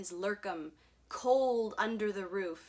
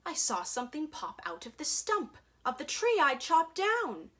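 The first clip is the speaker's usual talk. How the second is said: quicker, rising high at the end; startled; 4 semitones higher than usual. Acted. Onceler startled by a creature from the stump, surprised. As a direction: rush it out in surprise.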